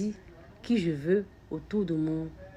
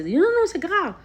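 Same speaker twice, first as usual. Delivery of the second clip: much higher, much louder protest; ego protesting; 12 semitones higher, 9 dB louder, slower than usual. Retold or imitated. Her ego shouting back at her soul, high and loud. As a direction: cry out in indignant refusal.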